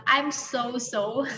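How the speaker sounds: very slow, drawn-out so-so; slow model phrase. Shown as a demonstration. Teacher slowly models a casual reply for students. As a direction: stretch each syllable for learners. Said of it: "teman-teman bisa bilang".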